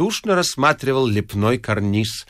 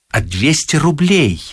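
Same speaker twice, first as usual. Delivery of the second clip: incredulous demand; 3 dB louder than usual. A narrator's reading. Ostap interrogating partner.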